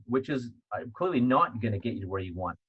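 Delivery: ordinary talk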